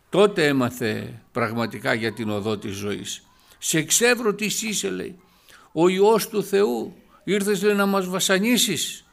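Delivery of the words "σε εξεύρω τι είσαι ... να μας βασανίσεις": demon crying out. Acted.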